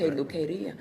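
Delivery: "peluqueria" with a quick tapped r, peh-loo-keh-ɾee-ah. Shown as a demonstration. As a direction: flick the tongue on the r of "peluqueria". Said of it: "make that little clap with that R".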